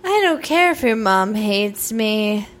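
low, slow, smooth crooning; slow jam voice. Pretend. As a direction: croon it slowly like a love song. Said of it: "slow jam voice right now".

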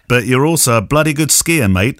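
put-on a light, jokey stab at an Australian accent; bad Australian accent. Host teasing his Australian guest about skiing, in a mock Australian accent. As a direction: tease him in a half-hearted Aussie accent. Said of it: "That was a terrible Australian accent".

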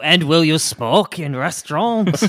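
mock French interviewer; French accent. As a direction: ask in a put-on French accent. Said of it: "French person with a French accent".

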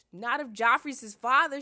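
high, loud scornful retort; bratty little-sister comeback; Arya. A narrator's reading. Arya jeers at her sister.

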